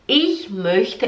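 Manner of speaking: Ich möchte spaced out and rising; repeat-after-me. Shown as a demonstration. Teacher asks learners to repeat, careful rising Ich möchte. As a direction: model Ich möchte word by word. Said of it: "Agora repete".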